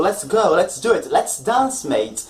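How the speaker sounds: lively, upbeat invitation, falling at the end; casual invitation, no question. Shown as a demonstration. Teacher inviting a mate, casual upbeat lets-go tone. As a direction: invite your mate without asking. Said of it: "I'm not asking you".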